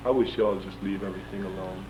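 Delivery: mildly sad, subdued quote; retold sad voice. Sarge wishes the protesters would leave things alone, understated sad voice. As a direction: let a touch of sadness into the quote. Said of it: "in a very sad voice".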